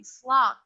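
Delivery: "Slot." said loud and crisp with a full open vowel; correct pronunciation. Shown as a demonstration. Teacher modeling "Slot." loudly for students to copy. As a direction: model "Slot." firmly and clearly. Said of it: "please pronounce it correctly".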